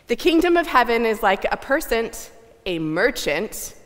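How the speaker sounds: loud theatrical melodrama announcement; overwrought stagey melodrama. Shown as a demonstration. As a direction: ham it up for the boos. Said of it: "we're gonna read this like a melodrama".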